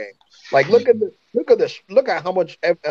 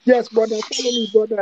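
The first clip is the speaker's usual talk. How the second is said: higher-pitched imitation of an African accent; copied African accent; 5 semitones higher than usual. White boy copying the speaker's accent on Apex, mock African accent. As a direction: mimic someone putting on an African accent. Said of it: "he started copying my accent".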